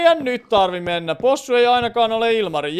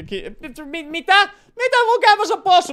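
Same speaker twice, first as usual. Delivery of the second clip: high, loud astonished outburst; sudden shock at finding the pig; shocked disbelief; 11 semitones higher, 6 dB louder than usual. Real, not acted. Sees a pig in his house. (hämmästynyt, korkea huudahdus)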